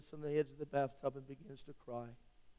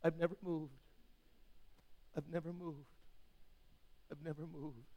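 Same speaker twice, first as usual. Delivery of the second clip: each "I've never moved" softer than the last; fading to quiet; 9 dB quieter than usual. Acted. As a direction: let "I've never moved" die away to near silence. God's answer repeated, fading.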